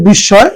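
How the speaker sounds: বিস্ময় with a double s and silent m; doubled s sound. Shown as a demonstration. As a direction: say বিস্ময় as "bishshoy". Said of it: "দুইটা স উচ্চারণ হয়েছে".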